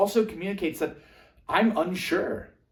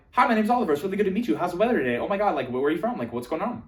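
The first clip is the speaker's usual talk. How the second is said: rapid-fire, overeager introduction; jackrabbit speech; 4 semitones higher, 3 dB louder, much faster than usual. Shown as a demonstration. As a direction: rattle out questions without a breath, starting high. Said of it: "speaking like a jackrabbit".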